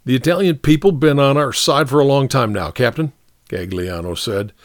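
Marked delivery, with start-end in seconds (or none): 0.0-3.1 lightly voiced soldier, a little higher; protesting soldier. Soldier defending himself to the captain, mild protest. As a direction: plead your case to an officer, mildly. Story figure Gagliano pleads.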